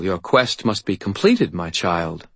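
a hint of an imperious faerie; faerie godmother.

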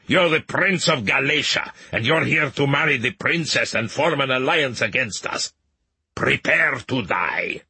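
a hint of a cold killer, slowing on the threat; lightly voiced assassin. A narrator's reading. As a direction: menace him calmly, then drag out the last words.

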